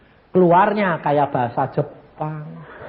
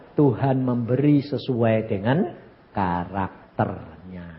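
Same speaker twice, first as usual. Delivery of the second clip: calm voice of God; 7 semitones lower, 3 dB quieter, slower than usual. Retold or imitated. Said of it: "Tuhan bilang".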